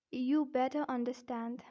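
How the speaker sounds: British demo, Rs dropped in better and understand; careful British-accent example sentence. Shown as a demonstration. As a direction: say it with a non-rhotic British accent. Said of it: "first I'll say in British accent".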